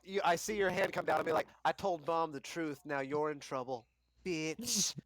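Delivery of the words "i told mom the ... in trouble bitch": smug sibling taunt. Acted.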